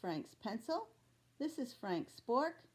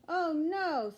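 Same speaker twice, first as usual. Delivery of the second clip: higher, louder cry of dismay; 7 semitones higher, 6 dB louder than usual. Acted. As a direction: groan at the noise. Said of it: "says Frank".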